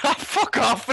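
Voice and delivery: high-pitched, amused brush-off; retold scoff, cracking up; laughing disbelief. Retelling his drunk, disbelieving reply.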